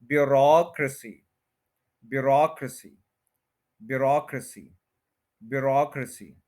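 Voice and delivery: ब्यूरोक्रेसी as byu-ROCK-ruh-si, a light si; stress on rock. Shown as a demonstration. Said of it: "सी को भी आपने ज्यादा stress नहीं देना".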